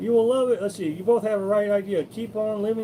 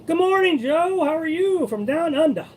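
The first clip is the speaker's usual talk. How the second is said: bright, much higher and louder hello; excited greeting; 9 semitones higher, 4 dB louder than usual. Real, not acted. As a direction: call out a cheerful welcome. Greeting a viewer on stream.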